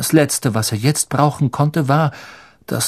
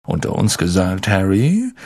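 fatherly; 5 semitones lower than usual. Acted. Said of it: "sagte Lockhart väterlich".

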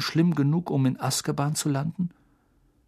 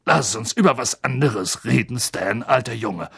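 uneasy driver. Acted. Ernie voiced by narrator.

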